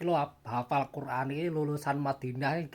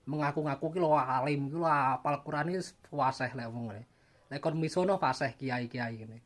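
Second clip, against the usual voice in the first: mocking Javanese kiai. Vlogger mocks boastful kiai with a light medok impression. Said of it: "Ngomongnya medok banget".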